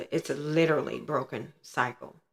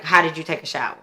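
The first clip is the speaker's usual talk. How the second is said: louder, accusing mother's demand; retold angry demand; 7 dB louder, much faster than usual. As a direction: throw the question at her like an accusation. Mother confronting her about shower.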